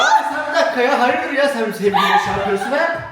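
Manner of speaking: high, fast hammed-up threat, laughing; over-the-top protective partner; mock jealous tough. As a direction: play the jealous boyfriend.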